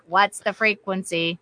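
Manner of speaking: a hint of a machine asking "What's the frequency?"; robotic voice. Retelling a voice heard while half asleep, a mild robotic tone. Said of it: "like, robotic".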